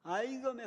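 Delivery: high, loud cry of pain under the cane; yelping to fend off the cane. Retold or imitated. Boy yelping at teacher's cane, loud high cry. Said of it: "엄살이 나왔습니다".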